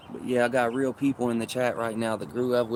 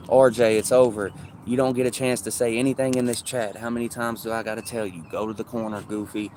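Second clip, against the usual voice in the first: calling out a troller. Real, not acted. Kicking a troll from chat.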